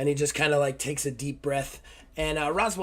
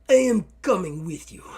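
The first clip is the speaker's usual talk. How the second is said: insistent; 4 semitones higher, 8 dB louder than usual. Acted. Bandaged soldier insists on joining.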